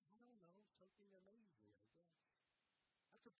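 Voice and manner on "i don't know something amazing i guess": put-on small boy's shrug. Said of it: "What do we want out of life?".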